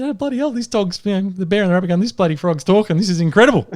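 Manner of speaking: lightly acted astonishment; amazed. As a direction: retell it in lively disbelief. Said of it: "they were just amazed".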